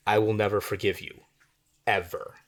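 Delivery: "ever" set apart after a pause; pause, then land "ever" as its own punchy word; stress on ever. Shown as a demonstration. Writing teacher reading an example sentence, stress on "ever". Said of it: "put a lot of accent on it".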